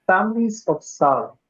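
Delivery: measured poem reading with deliberate pauses; poetry recital. Acted. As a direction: recite it phrase by phrase, weighting key words. Reads English translation of poem.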